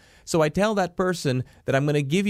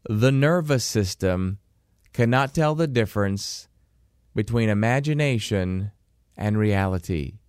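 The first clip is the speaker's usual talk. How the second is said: slow dictation; 5 semitones lower than usual. Shown as a demonstration. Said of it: "One more time".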